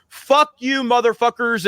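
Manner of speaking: imitating a friend cursing around kids, mock yell. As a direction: fling it out like a rowdy heckler. Imitating Ryan cursing at Disney.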